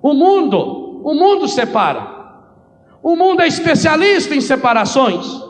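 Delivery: emphatic preaching with a high, rising voice on mundo. Acted. Priest opening his sermon to the congregation, emphatic preaching. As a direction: drive the repeated word home to the congregation.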